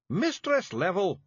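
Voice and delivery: high Scots scream, drawn out; high, loud Feegle scream. A narrator's reading. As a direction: scream her name to wake her. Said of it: "Rob screamed".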